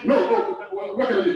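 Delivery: a hint of a flustered dismissive staffer; "no, no, what can I do" tossed off helplessly; lightly imitating an unhelpful nurse brushing off family; mock helpless reply. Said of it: "instead of saying".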